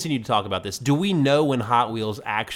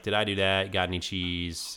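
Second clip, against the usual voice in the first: pull string toy; 4 semitones lower, 7 dB quieter than usual. Retold or imitated. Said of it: "Does the Steve Urkel doll say that when you pull the string?".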